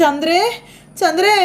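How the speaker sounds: high rising call of a name. Acted. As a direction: call across the house, pitch climbing. Bhama calling as she rushes in.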